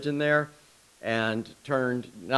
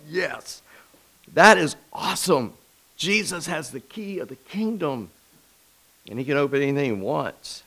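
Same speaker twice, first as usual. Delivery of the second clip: high, thrilled exclamation; excited reaction; 3 semitones higher than usual. Retold or imitated. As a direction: relive the delight, pitch lifted high. Acting out delighted reaction to song.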